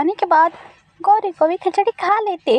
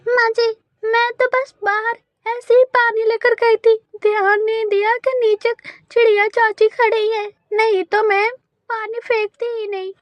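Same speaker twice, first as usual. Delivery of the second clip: higher, defensive daughter-in-law; apologetic bahu; 4 semitones higher than usual. Acted. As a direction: explain it wasn't on purpose. (सफाई देती बहू)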